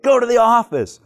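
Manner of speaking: high, loud shouted order; teacher sends the joking student to the office, shouting; teacher's shout. Retold or imitated. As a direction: fling out the order like a fed-up teacher. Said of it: "she looks at me and she goes".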